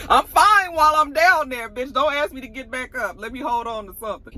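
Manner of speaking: joking through a laugh. Pretend. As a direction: laugh while pleading. Joking about getting back up.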